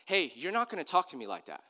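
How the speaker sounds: calm, understated boundary-setting; calm firmness. Retold or imitated. Dad showing son how to answer the coach, calmly firm. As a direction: state it evenly without raising the voice. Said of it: "You just calmly say".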